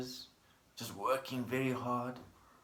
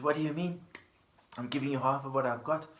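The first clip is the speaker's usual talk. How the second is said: mildly upset; 2 semitones higher than usual. Acted. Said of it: "he sort of gets a little bit upset".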